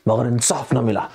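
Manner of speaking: a hint of Sunny Deol's courtroom outburst; mild mock courtroom protest; filmy dialogue, lightly hammed; Sunny Paaji dialogue. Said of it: "तो सनी पाजी ने बोला".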